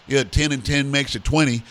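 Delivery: lightly imitated Southern US accent; a quick mock of Southern US speech. Host shows how the South changed English, mock Southern accent. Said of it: "in the South they were like".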